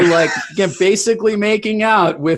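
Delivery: high, loud comic outcry; loud teasing. Real, not acted. Co-host picturing Evan with the chafing dish, shouting and laughing. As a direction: pile on the joke with a shout.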